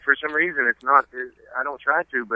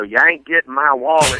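retold Southern comeback, a bit higher; real Southern accent; 4 semitones higher than usual. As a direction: act out a quick Southern refusal. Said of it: "I get real Southern real quick".

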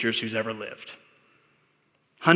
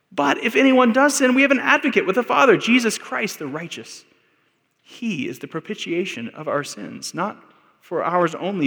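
fervent scripture reading; 7 semitones higher than usual. Real, not acted. Preacher reads scripture with fervour.

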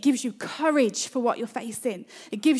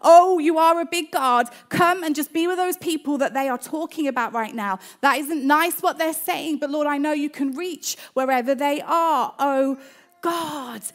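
fervent prayer; 3 dB louder than usual. Shown as a demonstration. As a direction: cry out to God with urgency. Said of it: "Might be going along".

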